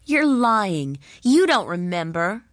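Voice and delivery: put-on taunting children calling her a liar; children crying out. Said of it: "cried the children".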